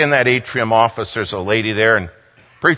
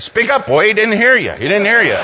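higher, louder, teasing prod; prodding boy; 6 semitones higher, 4 dB louder than usual. Retold or imitated. Preacher urging David to answer the governor, higher and louder. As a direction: nudge him to speak up.

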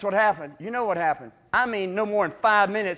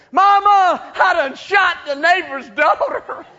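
loud, high call to mama; a hammed-up child's shout for mom; panicked kid calling; 8 semitones higher, 6 dB louder, slower than usual. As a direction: yell for mama like a scared boy.

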